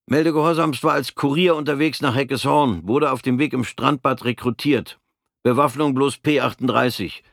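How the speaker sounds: crisp soldier's report; formal military report. Acted. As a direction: report by the book to the officer.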